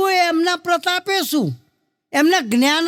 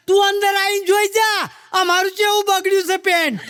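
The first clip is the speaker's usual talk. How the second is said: angry shout; 3 semitones higher than usual. Retold or imitated. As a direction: yell it out, indignant, showing off the stained pants. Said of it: "પેલો ભાઈ જોરથી કહે છે".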